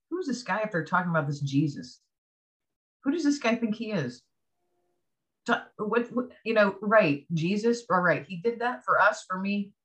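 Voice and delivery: mock disbelief, questioning who he thinks he is; retold skepticism. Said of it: "still carrying a chip on my shoulder".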